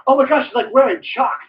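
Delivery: high mock gushing; gushing fan parody. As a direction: swoon over the shoes like a fawning fan. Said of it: "They go".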